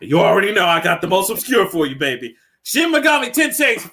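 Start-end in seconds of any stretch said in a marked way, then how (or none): 2.6-3.9 high, shouted game title reveal; excited announcement. Real, not acted. Revealing his obscure RPG pick, excited high shout. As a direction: belt out the title like a big reveal.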